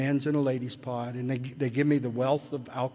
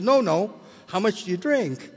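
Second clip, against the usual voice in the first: higher, louder, annoyed demand; irritated repeat; 6 semitones higher, 5 dB louder than usual. Retold or imitated. Irritated psychiatrist repeats his question, louder and higher. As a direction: snap the question back at him, fed up. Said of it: "it kind of pissed him off".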